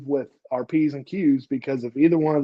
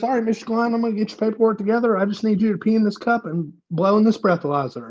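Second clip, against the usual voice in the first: office clerk; 7 semitones higher, faster than usual. Retold or imitated. Clerk voiced in a story.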